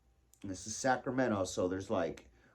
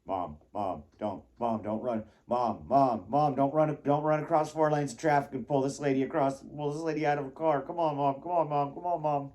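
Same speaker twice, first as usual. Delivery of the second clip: mock pleading; 3 semitones higher, 3 dB louder than usual. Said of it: "I'm sitting there scared".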